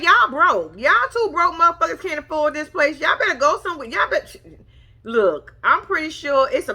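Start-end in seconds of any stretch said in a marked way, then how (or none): 0.0-4.4 mock rude saleslady. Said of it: "She ain't say that like that".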